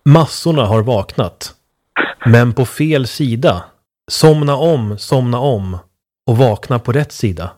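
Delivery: slow, measured lines with deliberate pauses; poem recital. Real, not acted. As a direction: read it out like a solemn short verse. Reads poem aloud to co-host. (långsam diktuppläsning)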